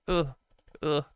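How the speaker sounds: short groan of distaste; disgusted ugh. Real, not acted. Host recoiling from a horrible person, disgusted groans. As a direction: let out two separate grunts of disgust.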